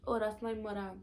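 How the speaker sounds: Saint Thomas island accent, easy and offhand; Virgin Islands accent. Shown as a demonstration. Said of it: "my accent".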